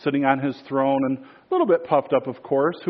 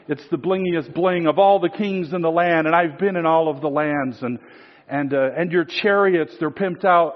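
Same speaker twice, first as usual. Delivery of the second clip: gushing flatterer; 4 semitones higher than usual. Retold or imitated. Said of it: "And I'm contextualizing".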